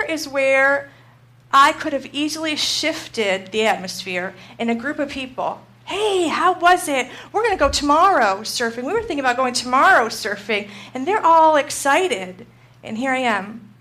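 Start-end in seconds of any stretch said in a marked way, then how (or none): 5.8-10.7 mock excitement. Quoting excited group at hotel.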